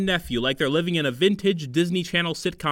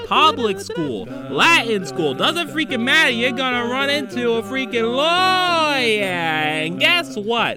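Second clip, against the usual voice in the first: exasperated rant; 6 semitones higher, 4 dB louder than usual. Acted. Ranting about lawyers.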